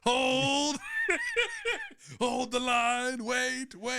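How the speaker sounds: shrill falsetto Southern belle shout; laughing high-pitched command; high Southern rallying cry. Acted. Natalie rallying the guys.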